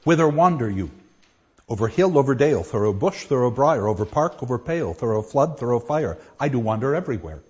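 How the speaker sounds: bouncy anapest reading, fast at the end; Puck's verse. Shown as a demonstration. Teacher reads Puck's opening to show the rhythm, bouncy. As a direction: skip through the lines like a sprite. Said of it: "Puck enters with a single ferry and says".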